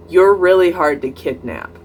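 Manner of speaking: retold remark with no hint of sarcasm; serious, unjoking. Imitating the date's alarming remark on leaving the mall, serious. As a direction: say it in earnest. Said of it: "without really any sarcasm or joking tone".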